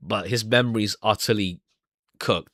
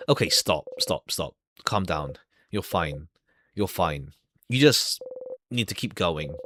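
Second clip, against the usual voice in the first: calming self; 5 semitones lower than usual. Acted. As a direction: talk yourself down gently.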